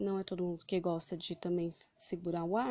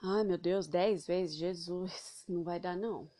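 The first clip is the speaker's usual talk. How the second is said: dismayed outburst; 4 dB louder than usual. Acted. Friend balks at ten breaths.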